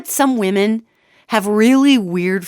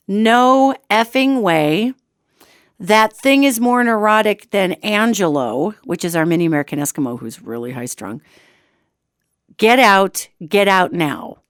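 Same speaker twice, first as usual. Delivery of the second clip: mock shouty text. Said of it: "it says in all capital letters".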